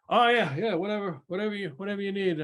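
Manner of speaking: high-pitched, accommodating halfling shopkeeper; eager, busy baker. Acted. Baker offers his back room to guests, eager and high. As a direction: agree readily in a high character voice.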